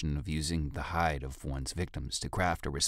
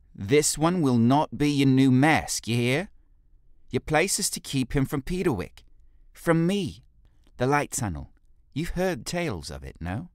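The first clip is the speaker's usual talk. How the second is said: much higher, louder stern orders; commanding leader; 9 semitones higher, 8 dB louder than usual. Acted. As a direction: command the guard to go. Jolie instructs guard.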